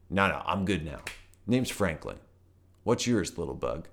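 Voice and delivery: chill, friendly toad. Acted. Toad character voice.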